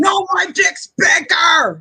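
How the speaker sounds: slow, mock-shouted brag; mock boast. Friend mocking a macho brag in a slow mock shout. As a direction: bellow the brag like a macho rival.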